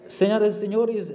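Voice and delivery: big show opener; announcer voice. Acted. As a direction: open like a stage host. Host opens the episode.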